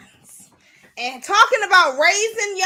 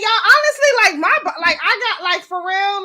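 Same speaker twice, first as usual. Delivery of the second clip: out of breath; 6 dB louder than usual. Real, not acted. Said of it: "I'm definitely out of breath".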